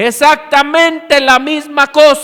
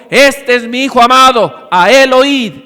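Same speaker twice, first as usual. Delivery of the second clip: voice from heaven; 6 dB louder than usual. Retold or imitated. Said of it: "una voz del cielo se oyó y dijo".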